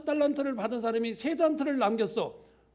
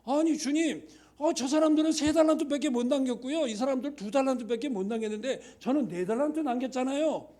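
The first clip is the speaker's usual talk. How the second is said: higher, louder protesting plea; pleading excuse; 3 semitones higher, 3 dB louder than usual. Retold or imitated. Pastor excusing himself before the Lord, higher, louder pleading. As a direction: make your case to the Lord, pleading and protesting.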